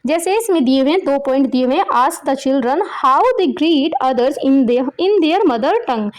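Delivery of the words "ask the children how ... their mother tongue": slow reading. Shown as a demonstration. Teacher reads the instruction aloud.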